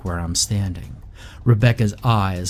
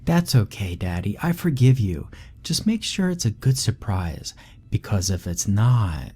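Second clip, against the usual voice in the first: put-on little girl Rebecca. Creepy little daughter chatting to her father. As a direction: play the eerie little girl brightly. Child voice again.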